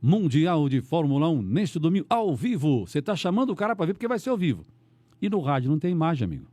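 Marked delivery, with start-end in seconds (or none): 0.0-2.9 slowed, emphatic broadcast call; announcer promo. Shown as a demonstration. Host repeating the race promo on air, broadcast style. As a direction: announce the live race to pull listeners in. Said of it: "Então tá passando lá os carros".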